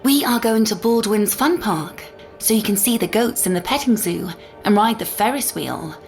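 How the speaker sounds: lilting, upbeat mommy voice; coaxing a child. Acted. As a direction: win a little one over with a treat. Mother coaxes child with rival plan.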